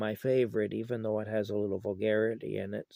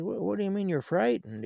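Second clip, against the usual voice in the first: retold yell; 9 semitones higher, 4 dB louder than usual. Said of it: "he yells up at the kids".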